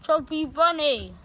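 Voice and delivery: cheeks stuffed with grapes; mumbled through grapes; mouth full. Real, not acted.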